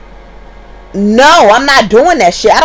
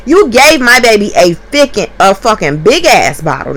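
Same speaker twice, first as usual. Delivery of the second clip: inner rant. Retold or imitated. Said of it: "I'm thinking to myself".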